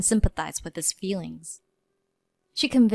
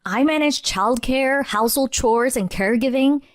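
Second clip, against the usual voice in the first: wife declaring she quits, raised and higher; indignant declaration; 4 semitones higher than usual. Acted. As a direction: declare it, no longer holding back. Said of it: "I declared".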